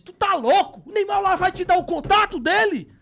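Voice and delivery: high, loud disbelieving wife; wife scoffing loudly. Retold or imitated. Wife scoffing at his plan, loud and high.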